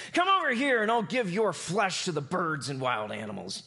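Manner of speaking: half-hearted giant's yell; mock yell. Goliath taunting David: lightly voiced mock yell. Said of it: "Goliath yelled".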